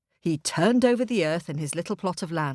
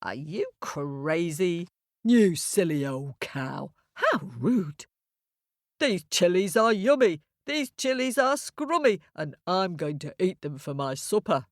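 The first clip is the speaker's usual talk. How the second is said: lightly voiced rude ram. Ram insults the cow and refuses to go, lightly scornful. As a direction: scoff as a dismissive ram, lightly.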